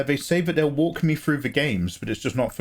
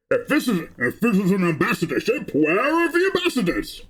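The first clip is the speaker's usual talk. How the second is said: James Earl Jones impression; 6 semitones higher than usual. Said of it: "I clearly can't do a James Earl".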